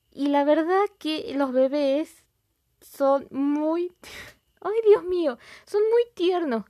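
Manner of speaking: high, loud squeal of delight through laughter; laughing squeal. Real, not acted. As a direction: gush and giggle over the cute babies. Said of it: "me río".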